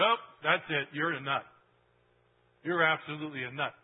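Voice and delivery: loud, mocking scoff; a crowd's loud jeering put-down; scoffing dismissal. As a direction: brush him off as a nut, loudly. Jews mocking Jesus as crazy.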